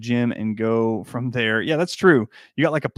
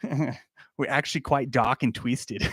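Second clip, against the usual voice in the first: goth Australian; 4 dB quieter, slower than usual. Retold or imitated. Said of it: "the goth Australian".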